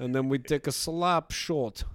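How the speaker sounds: put-on Russian English; Putin-style Russian accent. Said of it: "you are good at Russian".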